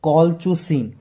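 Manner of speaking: कॉलचुसिन repeated carefully as kol-chu-seen; pronunciation demo. Shown as a demonstration. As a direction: model कॉलचुसिन for the class. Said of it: "क्या बोलते हैं इसको".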